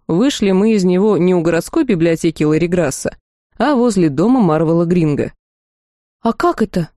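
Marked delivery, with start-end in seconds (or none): 6.2-6.9 slightly higher, silly puzzlement; mildly dumbfounded. A narrator's reading. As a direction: ask it in mild, foolish surprise. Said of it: "глупо удивилась я".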